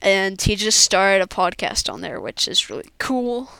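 talking while chewing gum; words round a wad of gum. Real, not acted. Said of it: "sorry if my gum chewing annoyed you".

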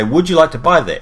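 chirpy high sales question; bright upsell pitch, a touch hammed-up; mocking a call-centre salesperson's cheery question. Retold sales agent asking.

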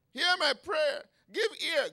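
high, loud cry for a hearing; insistent plea. Acted. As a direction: demand God's attention, pleading. Acting David's unanswered plea.

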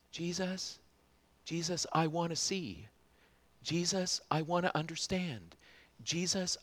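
a hushed disciple begging to understand; quiet longing prayer. Pretend. Imagined disciple's quiet plea.

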